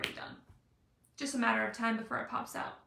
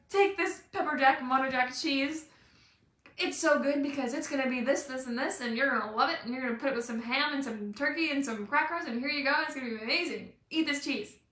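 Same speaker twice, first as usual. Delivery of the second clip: pushy cheese sampler; 4 dB louder than usual. Retold or imitated. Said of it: "Versus the lady that comes around pleasantly".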